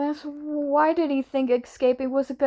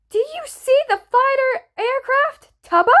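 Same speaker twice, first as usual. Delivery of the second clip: high, raised urgent question; urgent shouting; 11 semitones higher, 5 dB louder than usual. A narrator's reading. Wilbur asks Tubbo about the aircraft, urgently shouting. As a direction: call it urgently over the radio.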